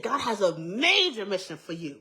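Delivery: emphatic retold proclamation; excited prophecy. Church lady prophesying over young girl, excited prophecy. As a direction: punch "major" with eagerness. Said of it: "She was excited".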